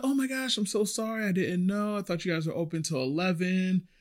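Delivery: high, apologetic and soft; apologetic customer. Retold or imitated. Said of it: "She's like".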